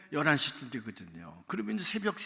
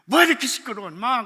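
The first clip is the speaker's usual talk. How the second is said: loud, higher annoyed bark; angry shout; 9 semitones higher, 14 dB louder than usual. Retold or imitated. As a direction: boss yells at the racket. Branch manager scolding the noise. (지점장이 소란에 버럭 호통)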